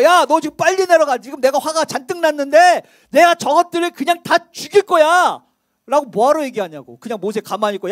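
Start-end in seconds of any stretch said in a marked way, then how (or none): 0.0-5.4 louder, hammed-up angry God. 모세에게 화내는 하나님, 크게 호통치듯. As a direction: bark it like God losing his temper. God scolding Moses, voiced.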